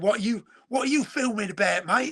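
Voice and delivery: put-on a light Cockney accent on a suspicious lad's question; mild Cockney lad asking what you're filming. Millwall lad quizzing the film crew, in a light Cockney accent. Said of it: "that was a Cockney accent there".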